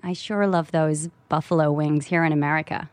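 American accent, lightly put on. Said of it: "L A accent".

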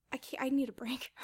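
breathy whispered aside, real and tired. Real, not acted. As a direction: drop to a whisper as if admitting it. Confessing fatigue mid-answer.

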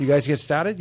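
"You guys get started" in a Boston lilt; Boston accent. Shown as a demonstration. Coach modelling the Boston phrase again. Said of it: "practice our Boston accent".

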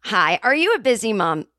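bright spokesperson opener; ad read. Shown as a demonstration. Third take of the oats ad, cheerful opener. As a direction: open the ad cheerfully. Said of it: "take it again".

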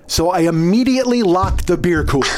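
laughing through the words; amused. Real, not acted. Comic confessing his pointless reaction, amused. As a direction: tell it while starting to crack up. Cracking up at own story.

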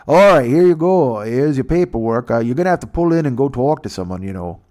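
lightly voiced Canadian official; a hint of a friendly border guard.

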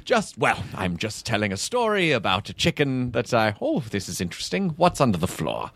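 mock German-English mashup accent; lightly put-on German accent; Christoph Waltz German accent. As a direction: tell it as a storytelling German. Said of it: "That's a Christoph Waltz German-English mash".

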